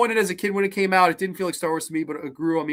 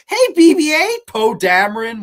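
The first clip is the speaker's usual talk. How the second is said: high, loud heroic call; loud cheesy hero voice; 5 semitones higher, 9 dB louder than usual. Retold or imitated. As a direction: shout it like a cheesy action hero. Mocking a Star Wars character.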